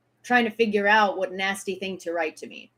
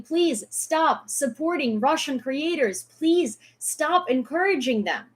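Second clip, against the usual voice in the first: pleading quote; 4 semitones higher, slower than usual. Retold or imitated. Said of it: "are screaming".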